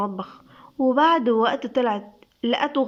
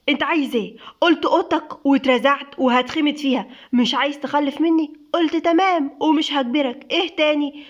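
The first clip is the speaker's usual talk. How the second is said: angry; 3 semitones higher than usual. Acted. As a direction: throw the words back at him in anger. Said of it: "نور بغضب". (بغضب)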